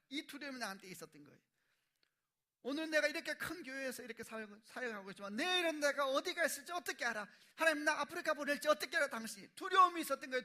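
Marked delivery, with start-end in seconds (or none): 2.6-9.5 louder, higher defensive outburst; retold shouted retort. His fearful retort to wife. 9.5-10.4 preaching at full force. Real, not acted. Preaching fear.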